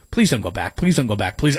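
deep pleading plea to his own voice; mock pleading low voice. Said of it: "I'm like".

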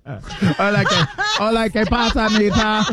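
mock Spanish accent. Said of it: "Why you saying it like you're from Osaka".

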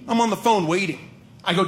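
ordinary talk, nothing marked

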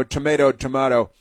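"Tomato, tomato" said first as tomAYto, then as tomAHto. Retold or imitated. Host mimics congresswoman's dismissive tomayto tomahto, contrasting the vowels. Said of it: "and then she says".

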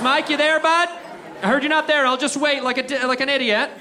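mock calling out to an empty house. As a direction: shout for Mike like an idiot. Knocking at absent buddy's house.

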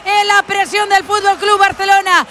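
high, shouted recap of the goal; excited goal commentary. Real, not acted. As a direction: keep the goal euphoria going. Commentator celebrates fourth goal.

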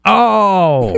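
long, high falling "oh"; caught-out realization. Real, not acted. Host learning it's called Jif, drawn-out high oh. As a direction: draw it out high as the trick dawns.

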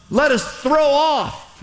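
"throw off" drawn out very slow and weighty; preacher slowing right down to drive home "throw off"; stretched emphasis. Shown as a demonstration. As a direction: lean hard on "throw off", stretching every word. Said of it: "Everybody say, "Throw off".

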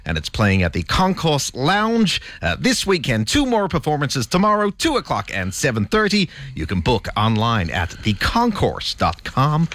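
put-on American accent, pitched high. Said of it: "in his American accent".

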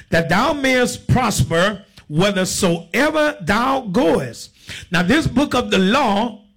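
slow, drawn-out Bible declamation; preacher's deliberate scripture cadence; scripture reading. Real, not acted. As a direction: proclaim the verse slowly to the congregation. Reads scripture to congregation.

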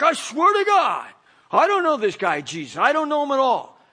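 loud, panicked swearing; swearing denial. Acted. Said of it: "says with an oath".

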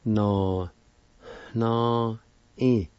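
"No, no, e" with a breathy H before the N; Cherokee for place. Shown as a demonstration. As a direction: give "No, no, e" an aspirated H sound before the N. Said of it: "put the aspirated sound, the H sound".

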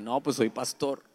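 lightly sheepish admission, head down; regretful. Retold or imitated. Patient sheepishly admitting his job to the doctor, regretful. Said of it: "Así, todo arrepentido de".

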